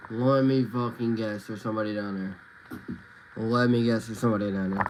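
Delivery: dry mocking guess; sarcastic. Real, not acted. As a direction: roll your eyes at it. Streamer mocking predictable story.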